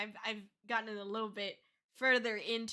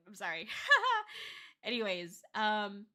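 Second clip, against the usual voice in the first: teary laugh; 5 dB louder than usual. Real, not acted.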